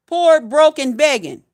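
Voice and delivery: loud, mocking chant of the words; loud scornful rant. Real, not acted. Ranting at broke fifty-year-olds, loud scornful chant. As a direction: spit out the insult loud.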